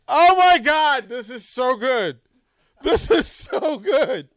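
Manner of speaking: gleeful, drawn-out delight; savoring delicious food. Real, not acted. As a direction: relish every word like a treat. Gloating over old photos.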